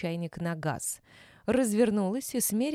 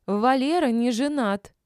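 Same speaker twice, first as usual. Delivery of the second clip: louder, slow, upset protest; upset insistence; 5 semitones higher, 7 dB louder than usual. A narrator's reading. Woman insists Valera is unmarried, upset and loud. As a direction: insist he is not married.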